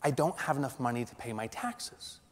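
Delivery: soft, slowed-down dread; hushed, horrified realisation; quiet inner panic. Retold or imitated. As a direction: murmur it like a gut punch. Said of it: "I felt this knife go into me saying".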